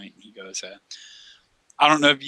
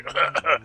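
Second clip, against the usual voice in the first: imitated cough; 5 semitones higher than usual. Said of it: "and he's just like".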